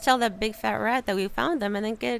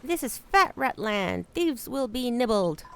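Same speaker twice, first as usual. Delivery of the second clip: gruff rat guard; 3 semitones higher than usual. Acted. Player voicing the rat guarding Fat Rat Land, pompous. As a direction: puff up like a pompous rat gatekeeper.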